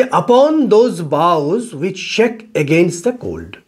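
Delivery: slow, measured verse reading; poem recitation. Shown as a demonstration. Teacher reading a Shakespeare sonnet to students, slow recitation. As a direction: read the line out slowly, word by word. Reads sonnet line to class.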